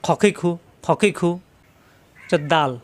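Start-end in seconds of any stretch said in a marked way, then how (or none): 0.0-1.4 খ, খি, খু in a quick run, rounded vowel on খ; thick, not thin. Shown as a demonstration. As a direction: rasp খ, খি, খু from the throat with short vowels. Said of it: "খা হবে না". (ছোট করে মোটা স্বরে খ, খি, খু)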